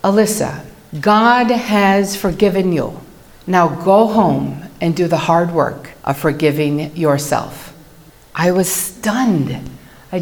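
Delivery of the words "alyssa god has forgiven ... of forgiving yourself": firmer voice. Retold or imitated. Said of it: "in a firmer voice".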